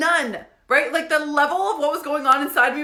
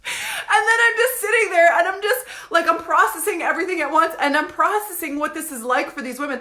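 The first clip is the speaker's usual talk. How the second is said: high, loud, laughter-choked telling; real laughing; 6 semitones higher, 3 dB louder than usual. Real, not acted. Storyteller recalling sitting there processing it all, laughing. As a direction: push on through helpless laughter. Still laughing after the punchline.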